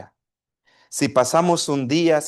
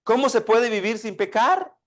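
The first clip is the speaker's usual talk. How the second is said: put-on higher, anxious child's question; worried child; 4 semitones higher than usual. Young son asking his father, a little worried. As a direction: let a boy's worry creep into the question. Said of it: "el niño ya un poco preocupado".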